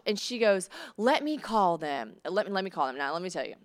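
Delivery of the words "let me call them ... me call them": Southern landlady. Retold or imitated. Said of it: "I'm gonna do some impersonations".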